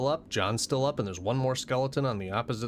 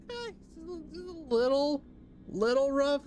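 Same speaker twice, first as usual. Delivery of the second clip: drawn out; 12 semitones higher, much slower than usual. Acted. Slow drawn out report.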